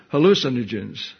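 "hallucinogens" with stress on the second syllable; dictionary pronunciation. Shown as a demonstration. Preacher reads out a hard dictionary word, "hallucinogens" stressed on the second syllable. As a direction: say "hallucinogens" leaning on the LU. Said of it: "that's the dictionary pronunciation".

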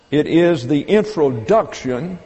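"introduction" picked out with deliberate stress; emphasis on introduction. Real, not acted. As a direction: lean on the word "introduction", then pause briefly. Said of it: "I wanted to emphasize the word introduction".

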